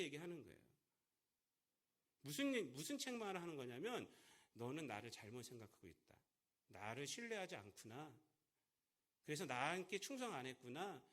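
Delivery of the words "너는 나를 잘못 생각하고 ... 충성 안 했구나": rebuking master. Retold or imitated. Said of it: "이것을 책망하는 거예요".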